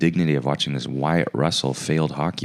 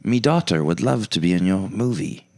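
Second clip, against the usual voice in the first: put-on Irish accent; 2 semitones higher than usual. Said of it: "Uh, Irish".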